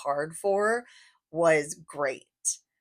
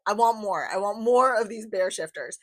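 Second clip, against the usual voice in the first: emphatic, louder I want more; eager demand; 2 semitones higher, 5 dB louder than usual. Real, not acted. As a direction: insist eagerly on wanting more. Eager reader wants sequel.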